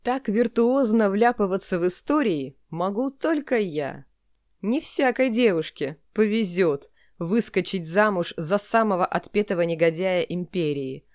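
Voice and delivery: lively audiobook blurb read; book trailer read. Shown as a demonstration. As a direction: sell the story with energy. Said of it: "А как нужно вам?".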